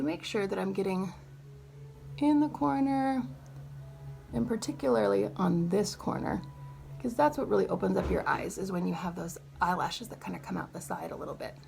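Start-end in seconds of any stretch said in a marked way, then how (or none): 2.2-11.6 talking while doing mascara, mouth stretched open; applying mascara. Real, not acted. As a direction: speak through a stretched face mid-mascara. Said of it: "I'm not good at talking while doing mascara".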